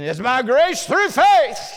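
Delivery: mock preacher. Preacher mocking another crowd's preaching, hammed-up and slow. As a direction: mimic a pompous preacher, drawn out. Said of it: "some crowd preaching".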